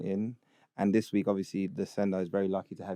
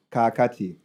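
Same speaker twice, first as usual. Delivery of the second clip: put-on Ugandan accent; 4 dB louder than usual. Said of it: "read it in a Ugandan accent".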